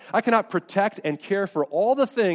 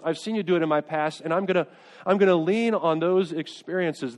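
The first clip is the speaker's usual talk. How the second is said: praying aloud; 2 semitones higher than usual. Acted. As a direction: pray it like you mean it. Voiced desperate prayer.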